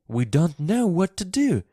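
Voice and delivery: high, worried cry; mildly distressed, pitched high; Martha crying out. A narrator's reading. Maid begs girl for help with screaming boy, crying out. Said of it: "she cried".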